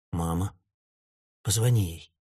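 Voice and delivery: woman urging driver to call his mother, hushed; hushed plea. Acted. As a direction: press him quietly to call. Urgent quiet plea.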